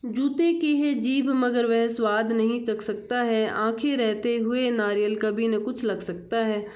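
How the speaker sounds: measured classroom verse reading; poem recitation. Acted. Teacher reads the Hindi poem to children, poem recitation. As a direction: read the verse out clearly, line by line.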